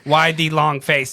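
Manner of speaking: slow mechanical punchline delivery; robot voice. Retold or imitated. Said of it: "that doesn't sound natural".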